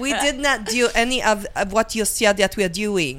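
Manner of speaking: put-on laughing through a Russian accent; Russian spy voice, half laughing. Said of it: "Are you a sultry, sexy Russian".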